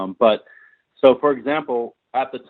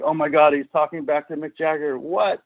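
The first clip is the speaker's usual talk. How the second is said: higher-pitched imitation of a stunned onlooker; mock shocked assistant; 6 semitones higher than usual. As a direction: voice the assistant's disbelief, pitch climbing to the end. Voicing shocked assistant in a story.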